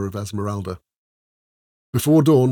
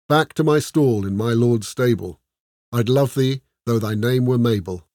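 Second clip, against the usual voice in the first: poem recital. A narrator's reading. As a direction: read it like a serious bard. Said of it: "read aloud".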